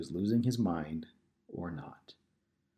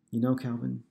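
through tears; 4 semitones higher, 4 dB louder than usual. Acted. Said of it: "Lisa said through tears".

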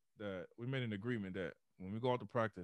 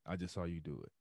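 raspy voice; 4 semitones lower, faster than usual. Retold or imitated. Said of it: "he got this real raspy voice".

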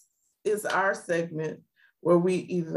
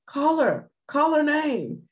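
urging dad; 9 semitones higher than usual. Retold or imitated. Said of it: "you can hear Dad on the camera saying".

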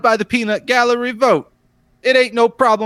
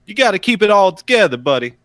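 put-on Brooklyn accent; 3 semitones lower than usual. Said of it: "It's a Brooklyn accent".

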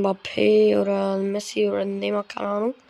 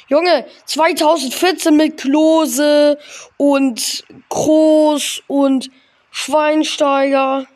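excited; 3 semitones higher, 5 dB louder, much slower than usual. Real, not acted. Nostalgic rant about 2014.

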